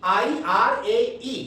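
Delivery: slow, spaced recitation of a mnemonic; slow drill repetition. Shown as a demonstration. Teacher drilling a mnemonic for students, slow and spaced. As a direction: drill it slowly so students memorise. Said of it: "अलग से आपको याद करना है आईआरएई".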